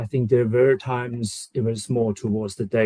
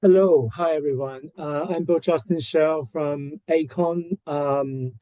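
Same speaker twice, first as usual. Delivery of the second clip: nasal from a cold; stuffy nose, nasal tone; 4 semitones higher than usual. Real, not acted. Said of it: "I think I sound a bit nasal today".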